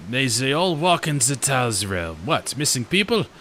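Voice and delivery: mild mock French accent. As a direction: give the gravekeeper a hammed-up French accent. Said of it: "Can I do a fresh French accent?".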